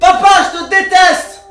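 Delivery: fake, pretend angry shouting outburst. Told to get angry, yelling at the father: fake angry outburst. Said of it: "Énerve-toi !".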